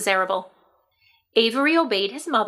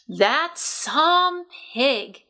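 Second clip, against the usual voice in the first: Mrs Arable; 5 semitones higher, much slower than usual. A narrator's reading. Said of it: "said Missus Arable".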